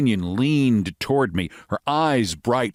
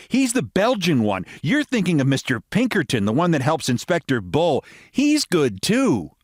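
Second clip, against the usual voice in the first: American lady voice; 6 semitones higher than usual. Acted.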